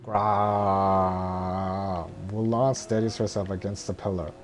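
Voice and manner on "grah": angry roar. Acted. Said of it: "Shan Yu".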